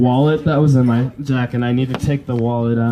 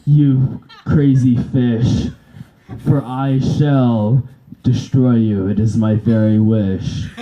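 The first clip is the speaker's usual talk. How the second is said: a hint of a menacing overlord; dark villain voice. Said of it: "a Minister of Darkness versus".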